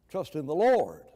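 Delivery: "Lord" punched at the end, falling; emphasis on Lord. Shown as a demonstration. Preacher building the verse piece by piece, stressing "Lord". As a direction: build the phrase up to a weighty "Lord". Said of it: "emphasize every word because there's an emphasis".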